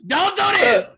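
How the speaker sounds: high, loud comic plea; mock tearful protest. Man pleading with his wife at the movie, mock tearful. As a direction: wail it in hammed-up upset. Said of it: "I'm like".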